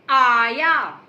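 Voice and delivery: आया with a long clear आ; drawn-out aaya. Shown as a demonstration. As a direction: stretch the आ in आया for the child. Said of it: "लिखो आया". (आया का आ खींचकर)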